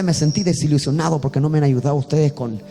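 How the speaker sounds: a calm, loving, candid remark; with love and frankness. Shown as a demonstration. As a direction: tell them kindly and honestly. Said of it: "Dicho con amor y con franqueza".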